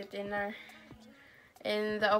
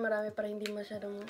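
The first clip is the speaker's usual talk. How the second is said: speaking between bites; talking while chewing; 3 semitones lower, 6 dB quieter, much faster than usual. Real, not acted. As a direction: mouth partly full. Seen 0: Left speaker puts chips in mouth, chews, then talks around 1.9s.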